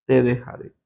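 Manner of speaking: No te desampa- ni te dejaré spelled out slowly; slow preacher's emphasis on the verse; slow, deliberate scripture quote. Shown as a demonstration. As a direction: let each word of the promise land. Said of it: "¿Qué dijo el Señor?".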